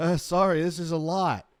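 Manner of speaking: put-on nervous giggling. Acting out what a guilty person says, imitating someone laughing nervously. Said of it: "you are not laughing at this period going".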